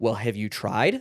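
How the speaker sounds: put-on, mock-frustrated voice. A parent recalling what they say to the kids, imitating their frustrated voice. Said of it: "in that frustrated voice".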